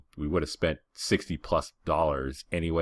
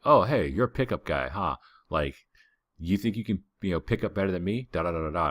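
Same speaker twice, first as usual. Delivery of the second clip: mocking challenge; 3 semitones higher than usual. Coked-out stranger taunting him about picking up girls, mocking. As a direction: taunt him like a wired guy at a club.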